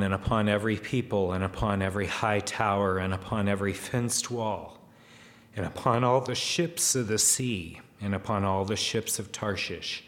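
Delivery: steady, lightly declaimed verse; rhythmic reading, each "and upon" a new item; scripture reading. Acted. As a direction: read out the list as holy scripture. Reads scripture aloud to congregation.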